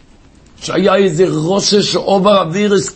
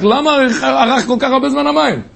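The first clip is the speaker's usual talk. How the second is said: retold shout; 7 semitones higher than usual. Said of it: "אז הוא צעק".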